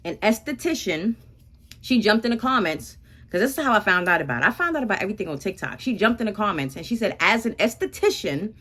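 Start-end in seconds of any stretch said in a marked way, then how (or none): 0.0-1.2 slow and careful: An esthetician, each syllable drawn out; said very slowly. Shown as a demonstration. Vlogger to followers, careful slow esthetician. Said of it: "I gotta say this word very slowly". 7.2-8.5 slowly. Shown as a demonstration. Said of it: "say this word very slowly".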